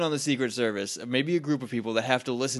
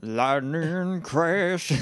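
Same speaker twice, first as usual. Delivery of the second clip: dramatic announcement; 4 semitones higher, much slower than usual. Acted. Dramatic sound effect call.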